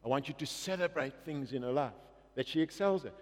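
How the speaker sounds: low, hushed voice of God; quietly voiced divine instruction; God speaking. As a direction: speak softly and low, as God guiding parents. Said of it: "we felt God speak to us and said".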